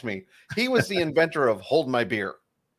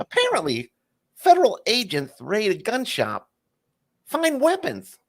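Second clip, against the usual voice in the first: high Leno headline read; Jay Leno; 9 semitones higher than usual. Acted. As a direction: lift it up like a late night host. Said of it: "you're gonna read 'em as Jay Leno".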